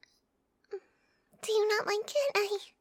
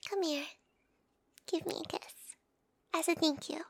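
tender; 4 semitones lower, 4 dB quieter than usual. Acted. Tender request for a kiss.

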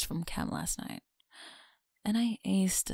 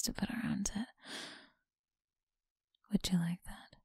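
teasing close whisper; breathy whisper to a listener; faster than usual. Acted. Whispered tease.

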